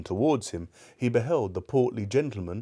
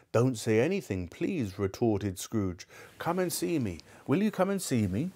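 eager Scrooge; 2 semitones higher than usual. Acted. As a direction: brush off the thanks and plead. Scrooge cuts off thanks, invites.

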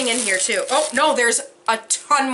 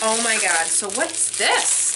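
ordinary delivery

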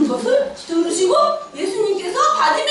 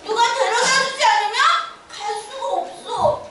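usual speaking voice

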